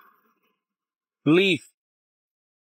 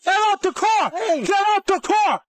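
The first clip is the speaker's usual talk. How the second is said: shouting command; 2 semitones higher, slower than usual. Real, not acted. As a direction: yell it at the driver. Cop yelling at driver.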